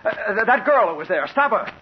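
high, loud urgent yell at the window washer. Acted. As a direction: shout across to stop him, panicked. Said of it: "I yelled at him".

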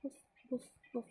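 lightly played puppy woofs; dog barking. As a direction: read a gentle dog bark for a child. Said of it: "Rover the dog barked".

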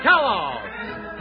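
ordinary talk

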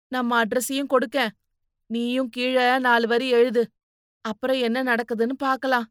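insistent maternal advice; advising motherly figure. Acted. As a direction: lay out a plan to a daughter.

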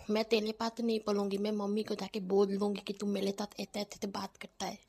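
lisping sister threatening to tattle; babyish, tongue-tied complaint; childish lisp. Acted. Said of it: "तोतलाना बंद कर".

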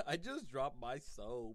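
slow, giggling through the words; laughing. Real, not acted. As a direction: laugh it out slowly. Laughing at his own slip.

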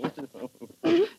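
high mocking laugh. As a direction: laugh at her, high and taunting. Drunk man mocks her.

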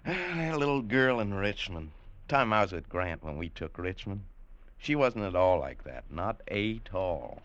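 low, soft fond remembering; wistful reminiscence. Acted. Old trooper fondly recalling a Richmond girl, wistful and low. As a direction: drift into memory, slowing at the end.

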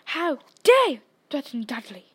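loud furious roar. A narrator's reading. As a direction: bellow it and pound the table. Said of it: "roared Uncle Vernon".

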